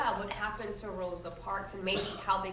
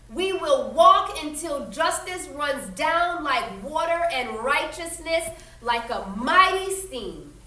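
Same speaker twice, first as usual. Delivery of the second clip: intoned; 7 semitones higher, 8 dB louder than usual. Acted. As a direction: intone it like a preacher from the pulpit. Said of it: "Doctor King intoned".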